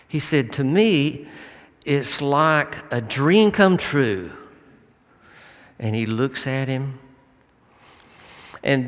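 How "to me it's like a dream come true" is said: higher, slow, marvelling; retold wonder. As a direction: marvel slowly, like a dream realized. Father marvels at the ballfield.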